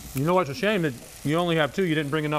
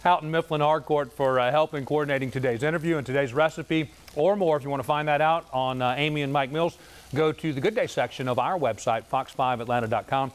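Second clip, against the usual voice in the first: mouth full. Real, not acted. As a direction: still chewing while talking. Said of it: "Yes, I'm still chewing".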